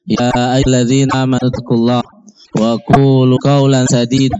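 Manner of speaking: formal Friday-sermon chant of praise; khutbah recitation. Acted. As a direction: recite the sermon preamble steadily. Formal Arabic khutbah opening.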